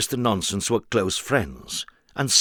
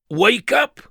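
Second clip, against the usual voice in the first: high, loud wake-up call; excited cry; 14 semitones higher, 7 dB louder than usual. Acted. Mister Silly waking his friend, high loud cry. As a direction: shout him awake with glee. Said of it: "cried Mister Silly".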